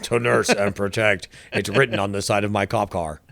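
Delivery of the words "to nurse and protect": slow, flat robocop delivery. Retold or imitated. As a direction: say it like a robot cop, slowly. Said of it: "so I'm just doing RoboCop".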